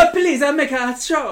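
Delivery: high, loud hammed-up Italian; Italian accent. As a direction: play a comic Italian.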